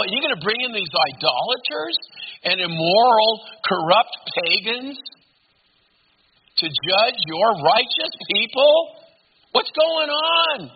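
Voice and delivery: mock tirade. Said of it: "launches into this tirade".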